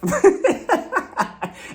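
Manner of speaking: high burst of laughter; real high-pitched laugh. Real, not acted. Laughs at own imitation.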